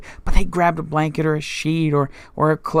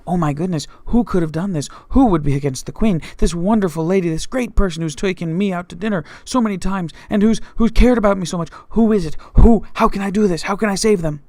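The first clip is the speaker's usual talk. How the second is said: panicked Haman; 3 semitones higher than usual. Acted. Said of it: "Haman is sitting there thinking to himself".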